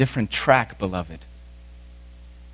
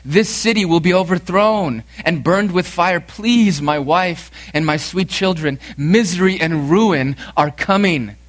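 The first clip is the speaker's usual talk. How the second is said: raised, pleading voice of doom; urgent warning; 4 semitones higher, 3 dB louder than usual. Acted. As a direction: warn your family with urgency. Christian warns family of destruction.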